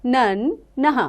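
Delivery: slow, drawn-out teacher's chant of each syllable; slow syllable recitation. Shown as a demonstration. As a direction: sound out every syllable slowly for children. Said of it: "अब हम पढ़ेंगे न की मात्राएं". (धीमे-धीमे अक्षरों का उच्चारण)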